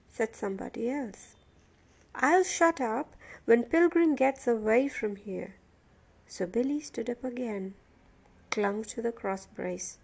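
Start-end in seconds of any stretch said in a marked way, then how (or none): 2.1-5.5 louder, indignant comeback; indignant prisoner arguing back; angry retort. A narrator's reading. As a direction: throw the blame back loudly.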